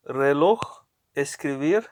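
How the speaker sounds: "reloj" as re-LOJ, "escribir" as escri-BIR; stress on last syllable. Shown as a demonstration. Teacher showing the stress rule, final syllable stressed. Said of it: "the last syllable is stressed".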